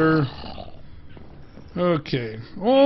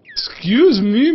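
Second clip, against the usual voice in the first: higher, louder, drawn-out excuse me; high polite excuse me; 8 semitones higher, 7 dB louder, slower than usual. Real, not acted. Squeezing past a turtle, high and slow.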